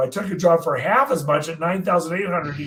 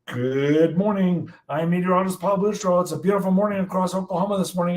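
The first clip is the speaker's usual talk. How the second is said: announcer read, hurried after the greeting; forecast read; 3 semitones higher, faster than usual. Retold or imitated. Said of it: "and he goes".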